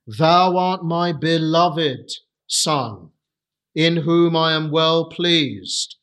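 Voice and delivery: slow, tender reading of "Thou art my beloved Son". Shown as a demonstration. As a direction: let the Father's love come through, slowly. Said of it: "these words really reflect the love of".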